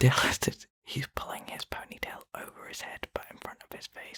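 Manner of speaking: very hushed, breathy whisper. Describing to the listeners what the other speaker is doing: whispering. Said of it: "Why are you whispering".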